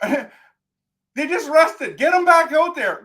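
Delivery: laughing frustration. Real, not acted.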